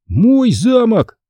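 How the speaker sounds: slow, high, possessive cry; eager interruption. A narrator's reading. Conor cuts Kyle off, slowly and proudly claiming the castle. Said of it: "перебил я его".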